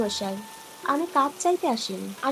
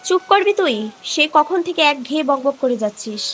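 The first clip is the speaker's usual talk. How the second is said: sharp, louder scolding; scolding snap; 6 dB louder than usual. Acted. Mother snaps at her nagging daughter, louder scolding.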